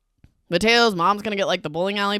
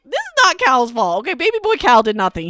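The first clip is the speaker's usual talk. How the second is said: defensive; 4 semitones higher, 4 dB louder than usual. Retold or imitated. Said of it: "I'm like".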